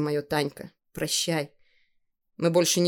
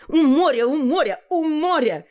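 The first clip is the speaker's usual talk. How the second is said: put-on high, sing-out childish answer; cheeky high-voiced girl; defiant girl; 10 semitones higher, 4 dB louder than usual. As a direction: throw each repeat out high and insistent.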